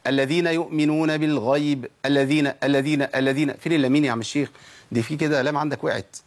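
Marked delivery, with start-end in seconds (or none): 0.1-3.5 الذين with the doubled lam rushed and swallowed; wrong rushed lam. Shown as a demonstration. Teacher demonstrates the common mistake. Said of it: "الخطأ ان انا اجري باللام".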